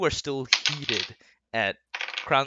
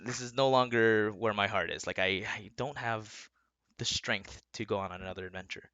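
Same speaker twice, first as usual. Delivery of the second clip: sad goodbye; 3 semitones lower, 3 dB quieter than usual. Acted. DM voices wife saying goodbye.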